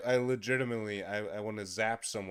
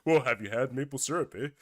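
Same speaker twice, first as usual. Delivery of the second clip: put-on stereotyped Canadian accent; 2 semitones higher, 4 dB louder, faster than usual. Teasing co-host about maple syrup, mock Canadian accent. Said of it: "it just stereotypes Canada".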